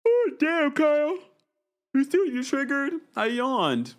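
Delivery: high loud startled outburst; surprised. Real, not acted. Startled reaction.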